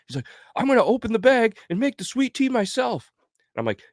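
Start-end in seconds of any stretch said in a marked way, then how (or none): 0.6-3.1 mock drunk buddy.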